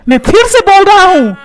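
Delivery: stern insistence. Acted. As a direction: lay down the law to your wife. Husband lays down the law.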